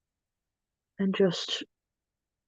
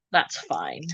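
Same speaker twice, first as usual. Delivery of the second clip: whispered; 14 semitones lower, 8 dB quieter than usual. Real, not acted. Quiet aside while fixing makeup.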